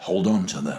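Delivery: tender, gentle, low, sympathetic voice. Speaking into the mic as a late-night TV voice, gentle empathetic voice. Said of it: "Do you want something gentle?".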